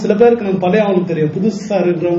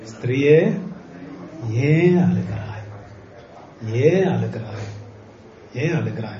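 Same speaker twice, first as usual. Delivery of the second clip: gentle Jesus voice; 7 semitones lower, 8 dB quieter than usual. Acted. Jesus gently asks weeping woman.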